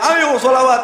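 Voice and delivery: high-pitched mock yell; imitated rallying shout. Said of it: "Habib Syekhnya teriak-teriak".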